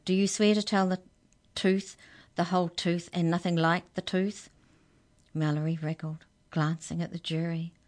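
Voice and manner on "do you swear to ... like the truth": thin reedy clerk. Acted. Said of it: "he repeated".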